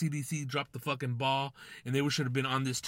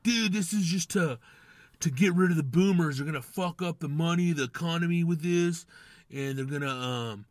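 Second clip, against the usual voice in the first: higher, louder tinfoil-hat rant; conspiracy theory voice; 4 semitones higher, 4 dB louder than usual. Retold or imitated. Podcast host mocking a conspiracy theorist, in a higher, louder tinfoil-hat voice. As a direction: play the wide-eyed conspiracy guy. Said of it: "I don't know why I'm doing that voice. That's my conspiracy theory voice".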